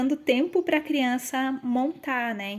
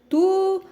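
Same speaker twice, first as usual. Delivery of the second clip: "Tucano" with the syllable "ca" hit much higher and louder; stressed syllable demo; 8 semitones higher, 8 dB louder than usual. Shown as a demonstration. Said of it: "qual que é a sílaba tônica". ("Tucano" com ênfase forte na sílaba "ca")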